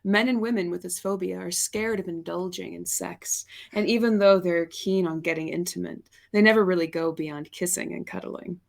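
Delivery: calm clinical reading voice; therapist voice. Real, not acted. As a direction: read it like a therapist. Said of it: "that's my, my therapist voice".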